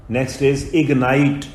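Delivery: very slow, word by word for writing it down; dictating at a crawl; slow dictation. Shown as a demonstration. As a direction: say it slowly enough to write down. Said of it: "dictation, slowed for writing".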